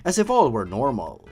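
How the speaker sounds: reading a creepy tale aloud, lightly dramatic; story narration. Acted. Narrator reads the creepypasta to his viewers, lightly spooky. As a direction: tell it like a spooky campfire story.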